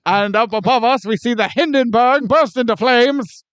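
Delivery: breathless vintage radio report; 1940s radio announcer. Pretend. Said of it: "nineteen forties radio announcer".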